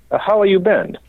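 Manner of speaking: lightly voiced questioning master; Dario impression. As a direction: ask it like a craftsman puzzled. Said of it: "he points to the top tube and he goes".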